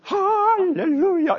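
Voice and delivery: high and loud, stretched slow; rousing hallelujah. Shown as a demonstration. Conductor cueing the choir, loud and stretched. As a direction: belt it to wake the whole choir. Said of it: "이렇게 나오거든요".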